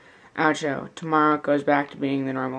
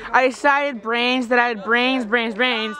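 zombie voice; 6 semitones higher than usual. Pretend. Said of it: "'cause I'm a zombie".

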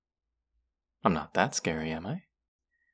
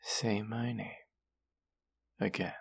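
whisper; 7 dB quieter than usual. Acted. Seductive command.

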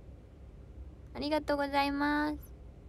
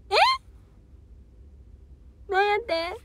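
surprised; 9 semitones higher, 9 dB louder than usual. Real, not acted. Reacting to surprising chat.

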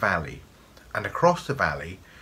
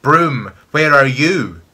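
very loud, raised call; shrieked summons, high and forceful; screaming witch voice; 5 semitones higher, 11 dB louder, slower than usual. A narrator's reading. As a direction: scream out for the broom. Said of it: "screamed the voice".

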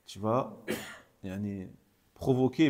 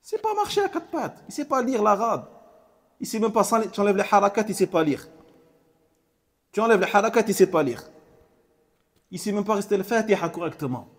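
loud, raised indignant rebuke; indignant scolding; 8 semitones higher, 5 dB louder than usual. Acted. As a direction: scold the hasty one. Preacher scolds the hasty one. (réprimande indignée et forte)

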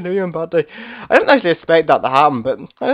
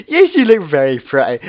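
loud, emphatic compliment; gushing reply; 5 dB louder than usual. Pretend. Flattering a helper who asks about looks, gushing. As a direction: gush it out loudly. Answering whether they look pretty.

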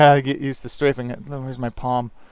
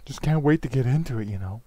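half-hearted, bad celebrity impression; lightly put-on, deliberately shoddy actor impression; Nicolas Cage. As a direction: do a rough pseudo movie-star voice. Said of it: "my pseudo shitty Nicolas Cage voice".

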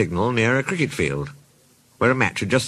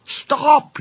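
high, drawn-out storybook yell; acted high-pitched cry to stop; 4 dB louder than usual. A narrator's reading. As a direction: yell it high after the departing train. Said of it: "yelled the fieldsman".

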